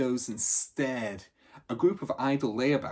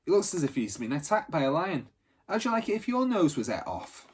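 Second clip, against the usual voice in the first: indignant outrage; 7 semitones higher, 4 dB louder than usual. Acted. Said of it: "said Benny".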